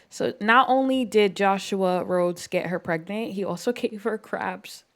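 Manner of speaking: trying not to laugh. Real, not acted. Player finding a sim's sad misfortune funny, laughing. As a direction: let a guilty laugh slip into the words. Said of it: "I shouldn't be laughing".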